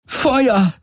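high, anguished order to fire; pain-distorted command. A narrator's reading. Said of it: "ihre Stimme von Schmerz verzerrt". (schmerzverzerrter Befehlsschrei)

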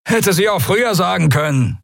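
high, rasping scornful voice; rasping sneer. Acted. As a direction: rasp it out with contempt. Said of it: "schnarrte er".

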